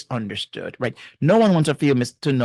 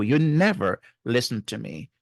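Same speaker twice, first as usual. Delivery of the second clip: NEVER leaned on as the key word; stress on never. Shown as a demonstration. To someone who never listens, hitting never. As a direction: land hard on the word never. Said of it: "the emphasis is on never".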